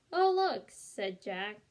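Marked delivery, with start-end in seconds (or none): 0.1-0.7 surprised. A narrator's reading. Jack suddenly remembers medallion.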